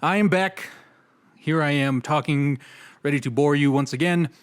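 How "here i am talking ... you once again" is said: slow, flat and droning; slow monotone. Shown as a demonstration. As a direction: drone on slowly without any lift. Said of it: "my slow, monotone voice".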